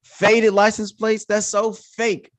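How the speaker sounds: exasperated disbelief climbing high and slowing down; annoyed and irritated. Retold or imitated. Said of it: "annoyed and irritated".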